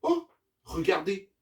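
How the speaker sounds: a touch of excited emotion; moved exclamation. Acted. Zuma spots the tired goats, moved exclamation. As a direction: gently draw everyone's attention. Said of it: "s'exclame Zuma, ému".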